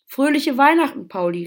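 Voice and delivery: high, loud festive cheer; calling out. A narrator's reading. All the animals greeting Pauli, calling out. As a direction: call out a hearty Christmas greeting. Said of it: "riefen alle Tiere".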